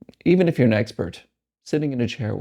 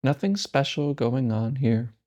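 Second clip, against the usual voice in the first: calm, unhurried meditation guide with long pauses; guided meditation. Real, not acted. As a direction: lead them gently into stillness, leaving space between phrases. Leads a breathing meditation.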